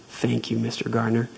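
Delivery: gently echoing the thanks, hushed; soft repeat. Acted. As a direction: drop the volume right down on the second "Thank you".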